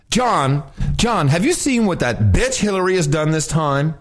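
gossipy camp impression; campy gay voice. Gossiping to John about Hillary, campy. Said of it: "you do a little gay".

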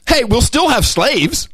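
high, slow mock-cheery voice; mocking Buffett. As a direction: sneer it out in a fake cheerful tone. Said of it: "That's essentially what he's saying".

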